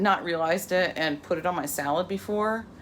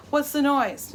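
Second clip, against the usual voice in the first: higher, louder call up the stairs; calling upstairs to the kids, raised voice; hollering upstairs; 8 semitones higher, 4 dB louder, slower than usual. Retold or imitated. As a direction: shout up to the kids. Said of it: "hollering upstairs".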